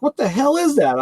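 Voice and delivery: high-pitched incredulous question; mock-baffled, pitch leaping up; imitated bafflement. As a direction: mimic a coworker puzzled by strange food. Coworker baffled by mortadella, retold.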